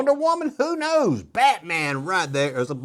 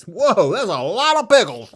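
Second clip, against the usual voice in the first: bright, louder marvelling; excited whoa; 3 semitones higher, 5 dB louder than usual. Real, not acted. Marvelling at a boxcar full of pickles, louder and excited. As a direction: sound impressed by the pickles.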